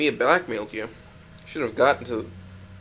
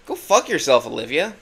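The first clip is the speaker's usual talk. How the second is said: angry outburst; 7 dB louder than usual. Acted. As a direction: spit it at her in anger. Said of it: "but I feel so angry".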